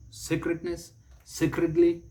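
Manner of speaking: sacredness and sacredly with "SAY-krid"; long AY opening sacredness, sacredly; correct pronunciation. Shown as a demonstration. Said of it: "It is pronounced sacred".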